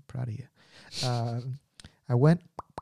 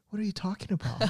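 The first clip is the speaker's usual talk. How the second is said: mock advisor; 9 semitones higher, 4 dB quieter, faster than usual. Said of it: "he's like".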